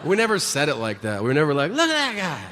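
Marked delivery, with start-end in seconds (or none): 1.7-2.4 mock pointing.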